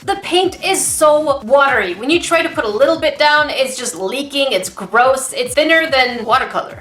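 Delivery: loud, irritated complaining; salty rant. Real, not acted. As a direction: vent about a bad paint kit. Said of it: "I was way more salty than I usually am".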